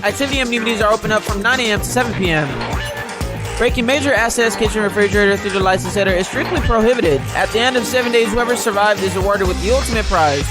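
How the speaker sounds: sing-song menace like a game show villain; fighting game announcer. Acted. Plays the Killing Game announcer.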